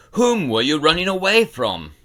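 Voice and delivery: loud gruff order; gruff command. A narrator's reading. Bookseller demands an answer, loud gruff order. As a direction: snap at the silent boy.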